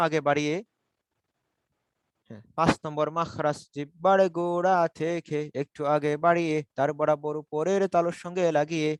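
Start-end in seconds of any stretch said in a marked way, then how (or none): 2.6-8.9 measured recitation. Shown as a demonstration. Teacher dictating the articulation point to students, measured recitation.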